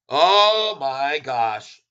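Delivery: awed drawl. Real, not acted. Marveling at chart.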